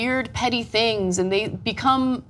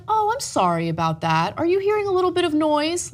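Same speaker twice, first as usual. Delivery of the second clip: condescending; 6 semitones higher than usual. Retold or imitated. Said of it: "I was a little condescending to her".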